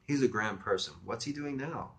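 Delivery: chatty female phone voice, lifting on the question; lightly gushing about a friend; friendly as hell. Acted. Woman chats about a mutual friend, newly friendly. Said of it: "She was getting friendly as hell".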